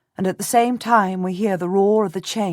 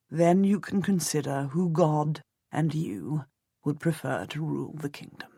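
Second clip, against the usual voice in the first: reassuring husband; 2 semitones lower, 6 dB quieter than usual. Acted.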